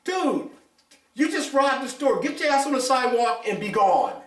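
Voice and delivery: stunned outrage, fading down as you lecture him; exasperated what the hell. Retold or imitated. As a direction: bark it out like you can't believe it. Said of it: "I'm like".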